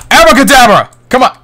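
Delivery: loud magic word cast; shouted incantation. Acted. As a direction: call out the spell. Casting a spell in game.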